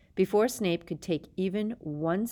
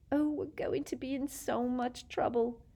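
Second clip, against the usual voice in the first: breathy scared whisper; frightened whisper; 7 semitones higher than usual. A narrator's reading. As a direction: whisper it in dread.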